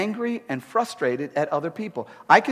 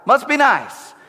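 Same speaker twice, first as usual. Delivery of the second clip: much higher, louder bitter mock grumble; a martyr sneering down from the office; resentful sarcasm; 8 semitones higher, 6 dB louder than usual. Pastor in his office resenting happy Saturday crowds, hammed-up sarcasm. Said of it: "I'll look down and be like".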